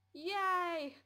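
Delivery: loud, high-pitched yay; excited cheer. Real, not acted. Cheering as the game says yes, excited. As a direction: let out a big delighted cheer.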